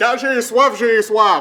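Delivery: high, loud, comic yelling cry.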